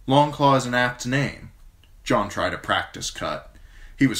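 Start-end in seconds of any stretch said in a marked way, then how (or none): 0.1-1.5 old commander voiced higher and louder, blunt and forceful; a gruff old commander praising a young man; gruff old lord commander. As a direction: speak as the stern old Lord Commander, grateful but brusque. Mormont voice.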